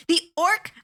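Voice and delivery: high, rising outrage, some words drawn out slow; exasperated outburst, voice pitched high; real indignant rant. Real, not acted. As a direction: pitch climbing with fury at the film. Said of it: "I'm so mad".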